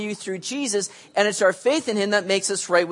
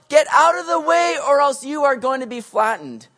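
driver yelling; 5 semitones higher, 3 dB louder than usual. Retold or imitated. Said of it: "honking the horn going".

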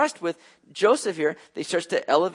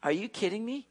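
incredulous shock; 7 semitones higher than usual. Acted. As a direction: play an old father who can't believe what he's hearing. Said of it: "Jacob is looking at this going".

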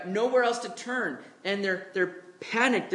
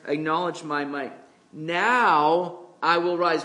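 loud, slow, solemn proclamation as God; thunderous divine decree building to a slow final line; booming voice of the Lord; 5 dB louder than usual. Acted. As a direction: declaim it like God rising to act. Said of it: "More like".

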